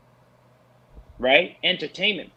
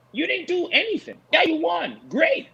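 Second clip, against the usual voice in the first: sarcastic; 10 semitones higher than usual. Real, not acted. Mocking the celebrating fighter.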